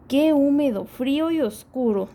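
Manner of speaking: chillando. Acted. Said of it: "dice ratón mientras chilla".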